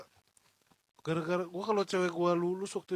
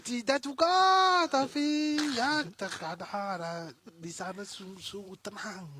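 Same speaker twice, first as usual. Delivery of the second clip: put-on Russian accent; 4 semitones higher, 5 dB louder than usual. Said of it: "gayanya aja, aksen-aksennya".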